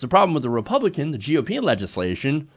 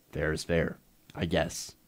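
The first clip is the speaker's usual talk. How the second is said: muttered sarcasm; 11 semitones lower, 10 dB quieter, slower than usual. Real, not acted. Sarcastic aside after quote.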